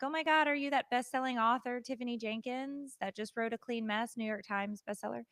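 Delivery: mock-starstruck fan rushing up; fangirl gushing. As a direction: gush over her like a starstruck fan. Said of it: "I run up to her like an asshole".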